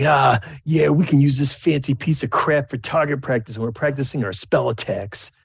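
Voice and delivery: a half orc bully mocking the halfling's toy. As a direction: sneer as you claim the prize. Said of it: "He's like".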